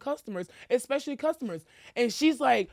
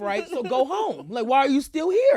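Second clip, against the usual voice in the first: raised-voice pretend telling-off; confrontational challenge; 3 semitones higher, 6 dB louder than usual. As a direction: challenge the cashier in a playful rant. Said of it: "I'm a little confrontational".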